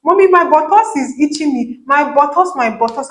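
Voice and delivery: put-on high whiny little girl's voice; child whining. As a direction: imitate your small daughter nagging mommy. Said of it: "My daughter, I need small thing".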